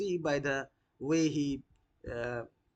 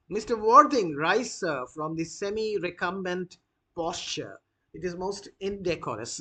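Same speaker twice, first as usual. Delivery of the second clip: louder, commanding grand lady at the start; Lady Bracknell, imperious; 4 dB louder than usual. Acted. Lady Bracknell ordering Mr Worthing off his knees, imperious. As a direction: bark the order like a stern dowager.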